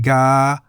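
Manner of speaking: long, level "ga"; middle tone on "ga". Shown as a demonstration. Teacher models the word for crow, middle tone. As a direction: hold "ga" evenly at mid pitch. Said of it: "is in the middle tone".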